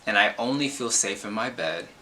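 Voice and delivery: emphatic spoken-word delivery with weighty pauses; slam poem reading. Acted. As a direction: perform it like slam poetry, punching key phrases between pauses.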